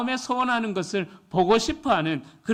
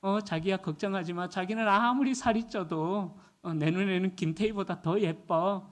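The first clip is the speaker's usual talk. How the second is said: lightly voiced soft Seoul husband, softer; a touch of sweet Seoul talk, softer; Seoul husband tenderness; 5 dB quieter than usual. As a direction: reassure your wife gently in Seoul speech. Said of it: "서울 남편은 이렇게 이야기해요".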